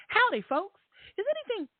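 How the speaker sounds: high, chirpy howdy voice; a mock sweet poster voice; put-on voice. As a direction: put on a cheery cowgirl voice. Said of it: "let me do a different voice".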